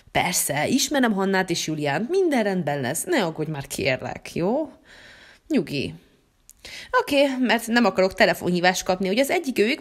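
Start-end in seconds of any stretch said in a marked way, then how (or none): 0.1-5.9 calm the worried wife in a low, hushed dad voice; reassuring dad. Acted.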